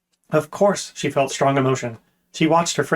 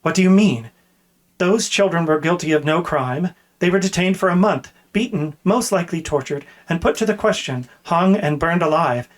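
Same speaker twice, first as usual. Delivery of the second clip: raised, indignant voice; outraged; 3 semitones higher than usual. Acted. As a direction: let the outrage build. Tuar outraged at captain.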